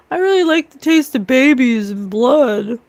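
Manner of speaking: lightly put-on interview voice; a touch of mocking impression; mock a singer. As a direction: mimic a celebrity mockingly. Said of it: "she is in her interview saying".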